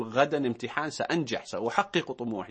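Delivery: steady, assured "سأنجح"; confident student. Retold or imitated. Host voicing a confident student before an exam, steady and sure. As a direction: say it like you believe it. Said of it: "قل".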